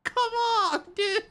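high, short complaint; real frustrated come on; clipped frustrated plea. Real, not acted. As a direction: snap it at the screen.

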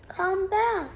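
a mild call after her. Acted. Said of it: "called the spider".

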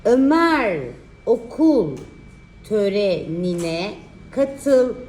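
slow, drawn-out dictation; dictating. Shown as a demonstration. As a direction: spell out the sentence slowly. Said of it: "dikte çalışması".

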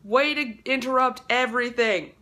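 loud, high sassy dog voice; dog mocking the phone's interruption, loud and sassy; voicing the dog. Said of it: "look at me like".

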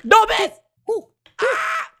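high, loud yelp of frustration; real high-pitched wail at a miss; frustrated cry. Real, not acted. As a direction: cry out as the jump goes wrong. Misses a jump in the game.

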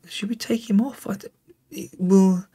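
soft whisper to himself; whispered question. Real, not acted. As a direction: whisper the question as a private thought. Quietly deciding on a substitution.

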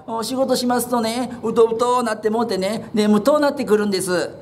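a cheerful idler explaining himself; easygoing young man. Acted.

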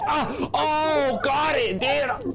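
high startled cry; startled yelp. Real, not acted. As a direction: jump in real surprise. Startled by creature.

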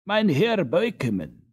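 high, loud, drawn-out call; crying out. A narrator's reading. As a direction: call out to stop a passer-by. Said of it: "found voice enough to cry out".

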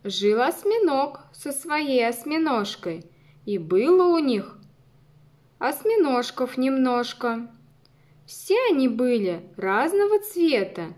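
lively rhythmic poem reading; poem recitation. Acted. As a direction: recite it for little kids. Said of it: "послушайте стихотворение".

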